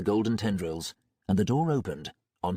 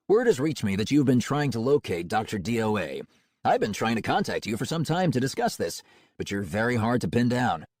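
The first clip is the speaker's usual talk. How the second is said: smooth cold-calling salesman; confident, warmly professional pitch; 2 semitones higher than usual. Acted.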